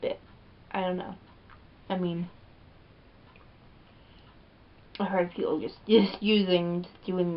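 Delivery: muffled speech between bites; chewing while talking. Real, not acted. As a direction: mouth partly full of food. Seen 2: Put chip in mouth at -3; lips pressed, chewing while speaking.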